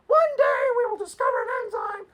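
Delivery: high, far-off mocking voice; Patricia Churchland imitation. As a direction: squeak like a smug professor. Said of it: "It's a good imitation".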